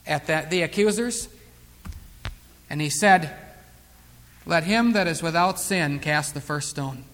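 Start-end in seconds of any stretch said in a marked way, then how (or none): 4.5-7.0 low, soft, measured quote; quiet authority that needs no volume; sincere authority. Retold or imitated. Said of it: "the power and the sincerity in his eyes and in his words".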